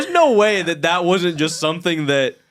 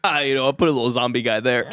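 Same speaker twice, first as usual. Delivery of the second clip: lower, casual mumbled aside; director impression; 5 semitones lower than usual. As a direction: play it offhand like the director. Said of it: "and he goes".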